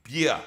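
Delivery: "Beer" as a Jamaican start to bacon; Jamaican pronunciation. Shown as a demonstration. Host has co-host repeat "Beer" the Jamaican way, bee-ah. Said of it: "you say with me".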